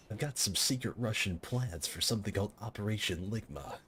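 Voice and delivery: a hint of a gravelly soldier; lightly voiced tough soldier; Snake voice. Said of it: "I can't get the Snake voice down 'cause my throat".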